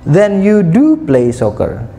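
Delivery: slow, high disbelieving "Then you do play soccer"; surprised, rising intonation. Shown as a demonstration. Teacher demonstrating a surprised reply, slow and high. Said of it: "kalau orang terkejut ada intonasi yang meninggi".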